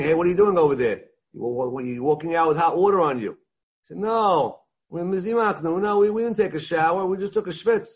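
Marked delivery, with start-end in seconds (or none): 0.0-3.3 fast, louder "Hey, what are you doing" call-out; mock scolding shout. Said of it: "when they started screaming". 4.0-7.9 defensive excuse. Retold or imitated. Caught bather making excuses.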